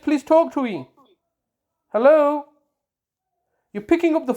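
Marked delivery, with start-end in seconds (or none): 1.9-2.5 raised, insistent hello into a silent line; loud repeated hello, waiting for a reply; calling out on phone. Real, not acted. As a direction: call down the phone for someone to answer.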